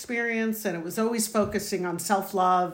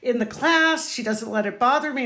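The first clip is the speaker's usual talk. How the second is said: proud; 4 semitones higher, 3 dB louder than usual. Retold or imitated. Mother voices her proud thoughts.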